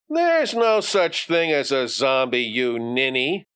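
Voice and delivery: a touch of bully's scorn; scoffing bully. Acted. Bully dismisses Johnny's zombie story, lightly scornful.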